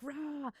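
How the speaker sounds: soft, drawn-out roar; half-voiced imitation of a roar; mock battle roar. Acting out Rox launching an attack, quiet mock roar.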